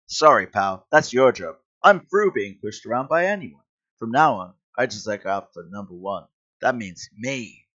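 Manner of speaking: loud, self-important dismissal; cocky brush-off. Acted. Selfish hero refusing to help policeman, cocky brush-off. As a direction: brush him off, full of yourself. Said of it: "really upsetting to see him speak like that".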